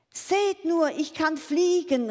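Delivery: high, loud call from the sky; calling down for everyone to look; exultant shout. A narrator's reading. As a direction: cry it out in triumph. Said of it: "rief er".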